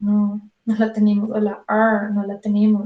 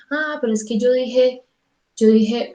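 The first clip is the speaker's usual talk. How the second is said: mock student protest. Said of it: "No, Paula".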